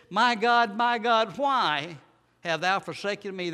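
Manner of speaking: high, loud cry of anguish to God; a forsaken son's loud, pleading cry. Acted. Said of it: "And it says in verse forty-six".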